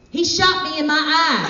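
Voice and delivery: high-pitched accusing cry; shouting. Acted. Teresa accusing Philip at the campfire, shouting. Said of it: "and she shouted".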